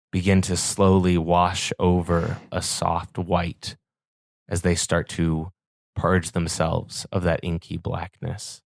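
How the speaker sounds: measured, even scene-setting storytelling; game master narration. A narrator's reading. Game master describing the devil's change to players, measured narration. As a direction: narrate evenly with deliberate pauses.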